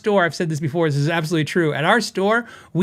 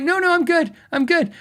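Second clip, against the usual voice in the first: hasty polite refusal; 11 semitones higher than usual. Retold or imitated. Declining the lady's offer, retold.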